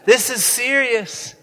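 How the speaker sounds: slow, laughing protest; mock panic. Disciples protesting to Jesus mid-storm, slow and laughing. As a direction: say it like you can barely keep a straight face.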